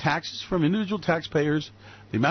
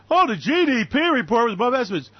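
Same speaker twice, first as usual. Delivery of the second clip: high, loud, hyped-up news reaction; mock excitement; 5 semitones higher, 3 dB louder than usual. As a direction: parrot the good news with fake excitement. Mocking excited report of GDP news.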